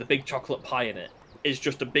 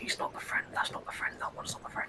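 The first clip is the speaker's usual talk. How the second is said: very quiet, breathy, barely voiced whisper. Player's character looking over and whispering to the rest of them, whispering. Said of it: "whispering over to the rest of them".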